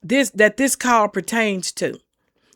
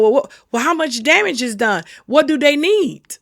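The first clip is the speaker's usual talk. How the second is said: mock panic; 4 semitones higher, 3 dB louder than usual. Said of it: "we go into panic mode".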